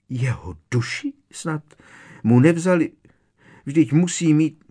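high, alarmed questioning; frightened mother, pitched high; horrified aunt. A narrator's reading. Horrified aunt about son's soul.

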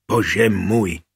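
understated heartfelt exclamation; blurted sincerely. A narrator's reading. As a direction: let it slip out sincerely. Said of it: "vyhrkla upřímně Barborka". (upřímně vyhrknuté)

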